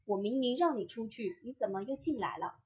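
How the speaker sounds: 出去 weighted as the key word; stress on 出去. Shown as a demonstration. Voice coach showing a reproach for coming back, stress on 出去. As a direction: lean on 出去, then question the return. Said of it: "如果把重音放在 “出去".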